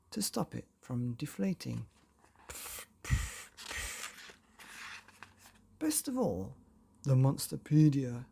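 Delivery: put-on lively, breathy storytelling for children; bedtime story narration. A narrator's reading. Narrator reading a bedtime chapter to children, playful storytelling. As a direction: spin the tale to sleepy kids.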